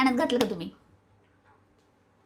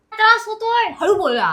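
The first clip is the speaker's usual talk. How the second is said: high whining complaint; a high put-upon whine; whiny complaint; 7 semitones higher than usual. Real, not acted. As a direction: whine that it bothers you. Complaining he talks too loud.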